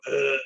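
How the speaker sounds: short guttural "ugh"; a quick mock buzz-in grunt; imitated grunt. Host showing players how Zach buzzes in, imitated grunt. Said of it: "Zach often will just go".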